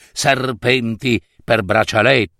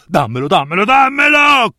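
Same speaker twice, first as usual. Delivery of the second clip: furious demand; 7 semitones higher, 3 dB louder, faster than usual. Acted. Strega pretende l'anello.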